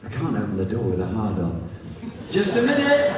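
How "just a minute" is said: high loud shout through the house. Acted. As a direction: call out loud and flustered. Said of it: "I shout".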